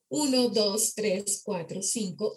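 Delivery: muffled counting, spoken into a cup; counting into a glass. Shown as a demonstration. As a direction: count with your mouth inside a glass. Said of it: "de números dentro de un vaso".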